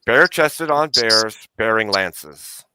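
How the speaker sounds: slow, grand recitation; slow heroic proclamation. Shown as a demonstration. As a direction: announce it like a motto. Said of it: "final proud recitation".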